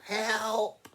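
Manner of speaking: high, loud growled cry for help; yelling trapped lion. Acted. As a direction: roar out for rescue. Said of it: "the lion was roaring and yelling".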